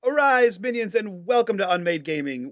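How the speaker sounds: high, loud mock villain summons; sneering gloating dark voice. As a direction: hail your minions like a gloating overlord. Villainous mock greeting to viewers.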